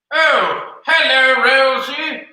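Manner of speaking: high goofy sock puppet voice; squeaky puppet voice for the sock. Pretend. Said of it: "What do you think of my sock voice?".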